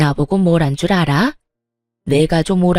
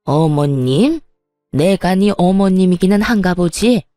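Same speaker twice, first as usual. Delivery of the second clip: put-on a mild, simmering angry old woman; fuming mother-in-law. Mother-in-law scolding her pregnant daughter-in-law, mildly fuming. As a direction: needle her with bitter sarcasm. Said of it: "노려보며 씩씩거리고 있는 시모".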